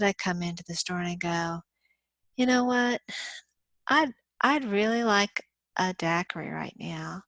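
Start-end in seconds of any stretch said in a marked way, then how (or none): 2.4-7.2 cool, easy, unbothered ask; relaxed casual request; calm and collected. Retold or imitated. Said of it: "I sound calm, cool, and collected".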